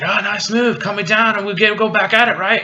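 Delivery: high-pitched, hurried character voice; mock wheedling. Turncoat caught in power lines bargaining, high mock wheedle. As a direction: plead quickly in a high voice. Retold Turncoat cheerily pleads while shocked.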